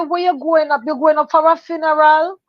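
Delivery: stewardess voice. Retold or imitated. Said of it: "So she said".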